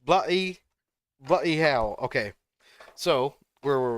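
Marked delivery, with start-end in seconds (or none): 0.0-2.0 higher mock-British exclamation; British impression. Friend practicing British slang, British impression. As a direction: try out the swear in playful British. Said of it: "some more British impression".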